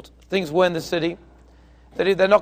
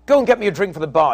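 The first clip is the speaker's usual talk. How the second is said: fast, slightly raised mock order; mock scream; faster than usual. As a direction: bark the order at a servant, half-hearted. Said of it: "he screams at him".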